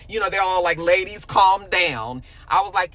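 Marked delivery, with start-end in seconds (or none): 0.8-2.2 slow patronizing calm down; condescending. Retold or imitated. Partners dismissing two arguing women, slow patronizing. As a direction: drag it out like a dismissive boss.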